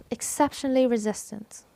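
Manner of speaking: "Exceptionally" stressed on its second syllable, "cep". Shown as a demonstration. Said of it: "It is the second syllable". (التشديد على "cep" في "Exceptionally")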